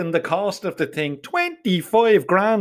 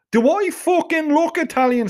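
indignant outburst; 9 semitones higher than usual. Acted. Offended retort to waitress.

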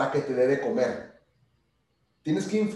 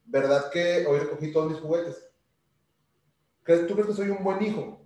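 niño que convence. Retold or imitated. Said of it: "sí le digo".

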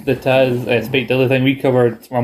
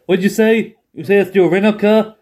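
higher, mocking question; mock Taz; 7 semitones higher than usual. Taz taunting J R about the rental car, high and mocking. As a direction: play dumb at the angry man.

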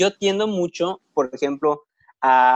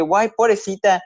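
higher-pitched retold pity; sympathetic exclamation; 4 semitones higher than usual. Student feeling for the departing teacher, exclaiming in pity.

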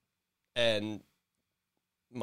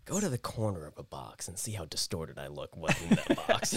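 art snob voice through laughter; pretentious art snob; 5 semitones lower than usual. Pretend. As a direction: play a pompous artist.

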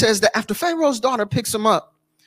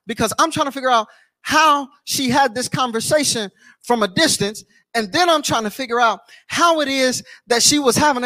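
impassioned preacher, voice up and driving; fervent preaching; 3 semitones higher than usual. Real, not acted. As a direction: preach it with rising conviction, phrase after phrase. Preaches his puzzlement at full force.

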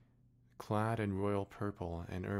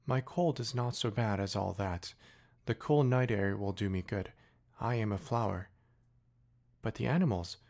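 higher, louder voice of a proud, touchy flower; 3 semitones higher, 4 dB louder than usual. Acted. Flower pleading with the departing prince, higher and louder. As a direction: play the vain flower hiding her hurt.

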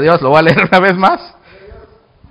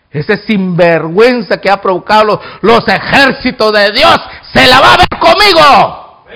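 acted defiance building louder; defiant challenge; 5 dB louder than usual. David vowing to face the giant, defiant. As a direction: build to a fighting vow.

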